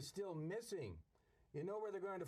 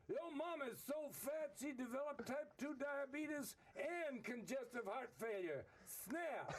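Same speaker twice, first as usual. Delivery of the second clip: put-on African American accent; 6 semitones higher than usual. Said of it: "can you do an African American accent?".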